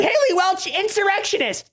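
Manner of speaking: high, far-off mock-dramatic call; mock announcer shout. Host mocking Haley with a high dramatic announcement. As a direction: introduce her like a villain.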